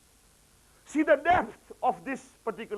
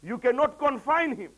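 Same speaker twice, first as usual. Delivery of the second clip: firm proclamation; 7 semitones higher, 5 dB louder than usual. Acted. Imam's answer voiced with force.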